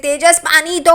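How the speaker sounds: imitating a lost voice; hoarse voice. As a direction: rasp out a request for water. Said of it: "उसकी आवाज़ बैठ जाती है".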